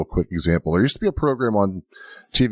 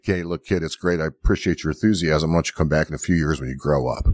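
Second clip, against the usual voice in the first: cordial coach; 4 semitones lower than usual. Retold or imitated. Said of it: "he's pretty cordial".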